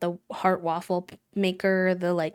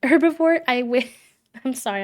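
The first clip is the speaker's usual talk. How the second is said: laughing, high and loud; kind gentle laugh; 6 semitones higher, 8 dB louder than usual. Real, not acted. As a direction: burst out laughing kindly. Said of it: "I'm not laughing at you".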